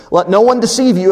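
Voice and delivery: insistent scripture quotation; emphatic. Acted. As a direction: press it as a warning. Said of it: "Again, very emphatic".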